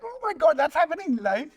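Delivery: high, loud gasp of disbelief; shocked disbelief. Retold or imitated. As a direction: react like you can't believe it's live. Retelling his shock at live gaffe.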